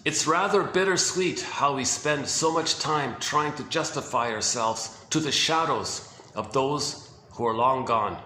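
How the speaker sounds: slow, measured narrator's reading; closing narration. Retold or imitated. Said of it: "the closing narration was".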